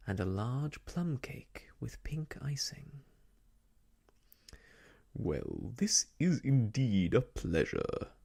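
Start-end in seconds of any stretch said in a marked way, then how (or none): 5.1-8.1 huge, jovial host's voice. A narrator's reading. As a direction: boom out a hearty welcome. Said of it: "a huge voice greeted them".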